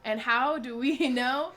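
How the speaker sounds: high, slow sales pitch voice; infomercial pitch. Acted. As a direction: pitch it like a late-night ad.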